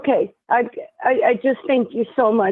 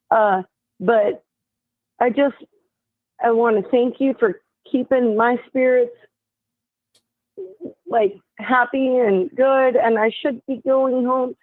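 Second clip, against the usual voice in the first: halting post-stroke speech. Real, not acted. Caller thanks host from hospital after mild stroke, halting speech. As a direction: search haltingly for each phrase after a stroke. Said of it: "my speech is a little messed up".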